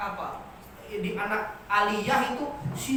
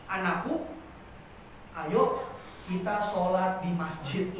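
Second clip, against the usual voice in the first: stiff formal speech; 3 semitones lower, 3 dB quieter than usual. Shown as a demonstration. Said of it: "Kalimat yang kaku".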